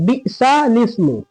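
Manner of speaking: "बिसा लिस्मु" split as bi'sa lis-mu; correct joining. Shown as a demonstration. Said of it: "सही जो है ये".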